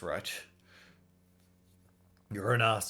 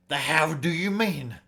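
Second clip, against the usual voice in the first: startled retort; 6 semitones higher, 7 dB louder than usual. Acted. Bandit takes offence, other placates.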